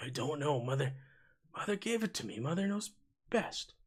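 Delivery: muttering under the breath. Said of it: "mutters under his breath".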